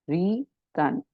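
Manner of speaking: रीतन said in two separate parts, री then तन; pronunciation demo. Shown as a demonstration. Teacher repeating the symbol's name for students, रीतन carefully split. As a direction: sound out रीतन clearly for learners to copy. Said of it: "इसको कैसे pronounce करेंगे".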